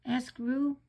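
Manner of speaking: ordinary delivery, nothing marked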